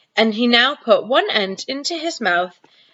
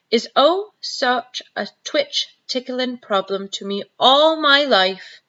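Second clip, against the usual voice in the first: wistful; 4 semitones higher, slower than usual. Acted. BFG wistful about words.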